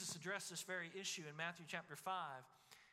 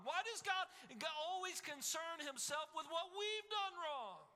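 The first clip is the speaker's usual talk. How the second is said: Judah complaining; 5 semitones higher than usual. Acted. Preacher voicing Judah's grumbling at God, building to an indignant whine. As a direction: whine that God picks on us, rising to an outcry. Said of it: "Judah might have thought to themselves".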